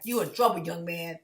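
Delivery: lightly voiced stern father; a hint of a dad telling off his teenager; authoritative dad. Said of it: "like a dad".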